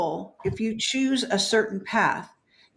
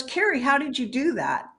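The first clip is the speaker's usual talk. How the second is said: a touch higher, lightly voiced amazed mother; mother's astonished voice; 5 semitones higher than usual. Dead mother in a dream, amazed, asking her daughter how. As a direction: ask it like her stunned mom would. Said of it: "In her exact word, exact tonality".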